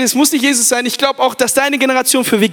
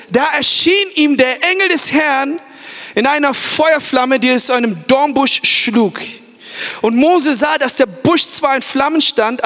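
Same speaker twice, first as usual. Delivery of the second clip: dramatic scripture reading. Acted. Preacher reads Moses and the burning bush to the youth. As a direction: read the burning bush like a story. Reads Exodus passage aloud.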